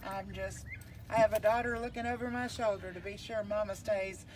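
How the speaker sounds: muffled behind a face mask; talking through a cloth mask. Real, not acted. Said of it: "Please forgive the mask".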